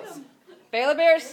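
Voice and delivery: loud, high whoop for his team; rowdy sports cheer. Real, not acted. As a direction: shout it like a fan in the stands.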